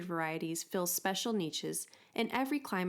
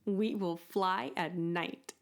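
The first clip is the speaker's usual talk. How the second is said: mild excitement; slower than usual. Acted. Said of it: "said excitedly".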